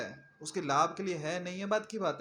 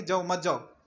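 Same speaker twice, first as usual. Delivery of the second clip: mock threat; 3 dB louder than usual. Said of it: "ऐसा नहीं कहा कि".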